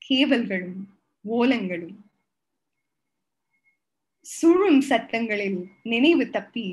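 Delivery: measured, deliberate poetry reading; poem recital. Acted. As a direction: read it like a spoken-word poem, each phrase set apart. Reads her Tamil poem aloud.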